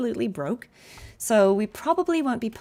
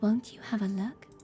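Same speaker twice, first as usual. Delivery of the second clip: put-on breathy near-whisper, quieter; 6 dB quieter than usual. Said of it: "She's almost whispering".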